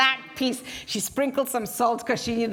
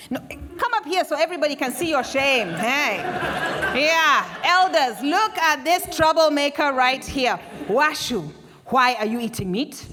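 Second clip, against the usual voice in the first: accusing elder; 2 semitones higher, 4 dB louder than usual. Acted. Elder accuses before audience.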